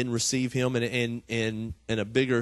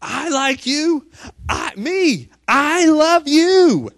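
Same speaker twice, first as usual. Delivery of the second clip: high, loud, slow gushing cry; a little boy bursting with love for his hero; excited child shout; 13 semitones higher, 10 dB louder, much slower than usual. Retold or imitated. Little Jacob calling out to Hook on stage, high and loud. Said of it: "And he goes".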